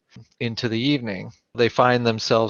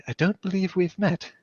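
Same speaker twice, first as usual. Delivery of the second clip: Coco's voice; 8 semitones higher than usual. Acted. Coco wakes, speaks to Artemis.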